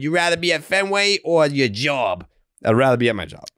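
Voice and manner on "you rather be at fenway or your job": lightly mocking high fan voice; a hint of the Fenway diehard. Quoting the fan's question in a mild mock voice.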